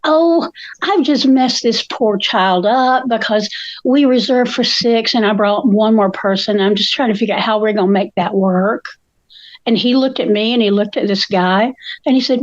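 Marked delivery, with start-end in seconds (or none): 0.0-8.8 mock-innocent sweetness toward a manager; very sweet. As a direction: play gently apologetic. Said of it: "I was very sweet".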